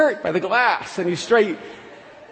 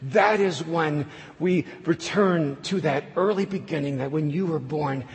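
solemn sermon close; 3 semitones lower than usual. Acted. Preacher's closing appeal.

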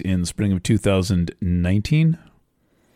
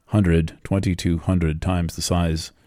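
"twenty-two hundred" spaced out more slowly. Shown as a demonstration. Astrologer repeating a huge figure for listeners, more slowly. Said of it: "I'll say that more slowly".

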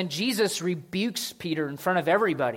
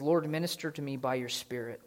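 prayer. Acted. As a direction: pray it over the room. Reads a written prayer.

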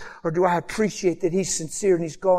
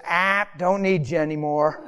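laughing God voice. Acted. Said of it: "a voice came from heaven and said".

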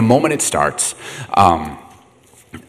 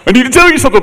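very high mock crying voice; tearful teenage daughter; 13 semitones higher, 5 dB louder than usual. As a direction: wail it like a daughter in tears. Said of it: "a teenage daughter call you crying".

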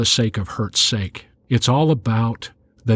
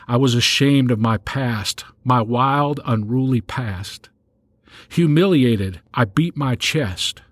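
remorseful Ephraim; 2 semitones higher than usual. Retold or imitated. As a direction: read it as a humbled son owning his shame. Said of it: "Ephraim saying".

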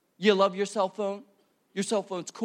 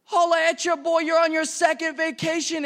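jealous whine; 6 semitones higher than usual. Retold or imitated. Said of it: "And you're like".

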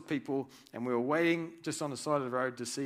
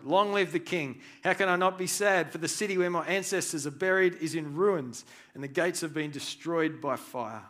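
pleading to the king; 3 semitones higher, 5 dB louder than usual. Retold or imitated. Nehemiah answering the king.

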